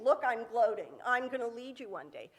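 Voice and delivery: lightly hammed-up boast; mock gloating. Joseph imagined boasting to his brothers, mock gloating. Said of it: "not a dream saying".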